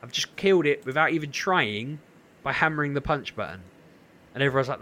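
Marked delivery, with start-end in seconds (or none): 0.0-3.6 raised and louder, in stunned disbelief; can't believe it was that easy; incredulous disbelief. Retold or imitated. Streamer after killing the last boss by button mashing, incredulous and loud. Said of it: "I was like".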